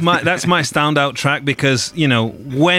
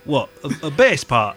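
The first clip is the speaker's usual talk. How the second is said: laddish Manchester accent, playing a musician; gruff Manc accent, deadpan; 3 semitones lower than usual. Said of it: "living out my favourite Manc accent".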